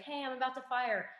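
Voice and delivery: high mock call-out at normal volume; retold yell. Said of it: "he yells to the road".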